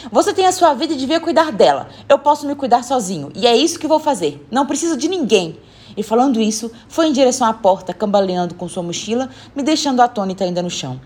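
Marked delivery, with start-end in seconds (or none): 0.1-5.6 put-on higher-pitched stubborn kid; defiant retort. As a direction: insist you need nobody. Boy defiantly claims independence. (menino teimoso e desafiador)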